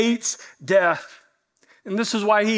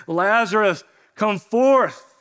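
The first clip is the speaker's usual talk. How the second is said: mock calling out; 3 semitones higher, slower than usual. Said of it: "So once more, he says".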